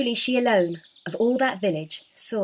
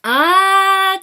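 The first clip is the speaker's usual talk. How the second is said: loud, much higher cry of joy; wonder and delight; 11 semitones higher, 13 dB louder than usual. Acted. Sister learning the girl has truly seen him, delighted cry. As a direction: cry out, overjoyed and amazed. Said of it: "cried the sister in wonder and delight".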